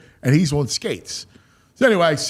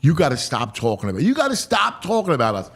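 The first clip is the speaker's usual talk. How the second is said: incredulous echo; 3 semitones lower, faster than usual. Retold or imitated. Host questioning the ballplayer's rebuke, incredulous. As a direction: throw the rebuke back as a quick question. Echoes the rebuke back in disbelief.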